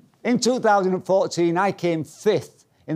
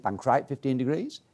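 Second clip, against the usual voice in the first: softer retold echo, rising at the end; pupil's echo; 2 semitones lower, 5 dB quieter than usual. Pupil repeats instructor's order back, retold questioning echo. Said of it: "I said".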